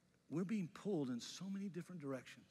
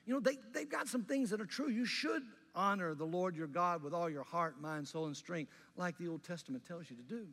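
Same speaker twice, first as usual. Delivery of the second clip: Paul preaching loudly; 2 semitones higher, 5 dB louder than usual. Retold or imitated. Pastor voicing Paul to the Galatians, loud impassioned preaching. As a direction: preach it hard like the apostle warning his church. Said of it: "what Paul's telling the church in Galatia is".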